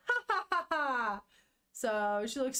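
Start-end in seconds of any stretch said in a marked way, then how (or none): 0.1-1.2 high mock girlish laugh; a little girl laughing, stoked; girl's laugh. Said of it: "And she goes".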